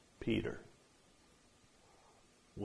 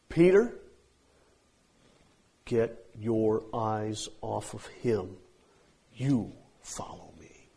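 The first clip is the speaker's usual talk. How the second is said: intimate rebuke; slower than usual. Acted. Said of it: "Stated with emphasis".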